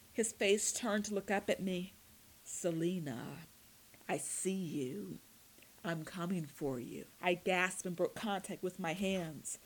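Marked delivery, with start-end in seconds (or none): 2.4-7.1 warbling voice. Acted. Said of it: "His voice warbled".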